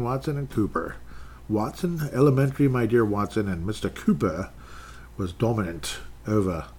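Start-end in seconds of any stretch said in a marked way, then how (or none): 1.5-6.7 put-on British accent wandering toward Australian; muddled British-Australian accent. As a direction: attempt a hammy British accent, not quite landing. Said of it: "which accent I'm even trying to do".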